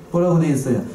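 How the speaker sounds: ordinary delivery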